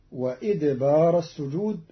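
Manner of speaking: وإدبار said with i, idbar; kasra on hamza. Shown as a demonstration. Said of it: "فتصير". (وإدبار بكسر الهمزة)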